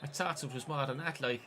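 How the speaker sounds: soft put-on Irish accent; casual mock-Irish aside. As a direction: slip into a playful Irish lilt. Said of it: "I don't know why I'm Irish".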